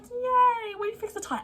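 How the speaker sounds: high, bright mock cheer on yay. Vlogger voicing the characters cheering over the fixed tire. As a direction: sing out the relief like a cartoon. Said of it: "everyone's like".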